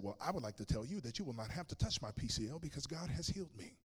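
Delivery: insistent, rising retold declaration; earnest declaration. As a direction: state it firmly to the doctor, pitch lifting as you go. Declaring healing to the doctor.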